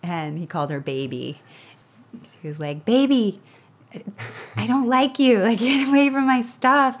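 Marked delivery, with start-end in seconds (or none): 2.8-7.0 mock toddler, higher and louder; cranky toddler. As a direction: whine it like a possessive little boy. Toddler pushing sister away.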